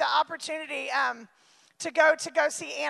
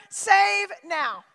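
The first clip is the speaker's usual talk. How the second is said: loud, ringing call of save now; shouted cry; 2 semitones higher, 4 dB louder than usual. Acted. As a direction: cry it out like the crowd. Preacher crying out Hosanna.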